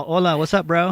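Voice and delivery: playful, hammed-up California bro greeting; Californian Spanglish bro. Embracing being called Californian by relatives, playful bro. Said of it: "Hey, I'm a California".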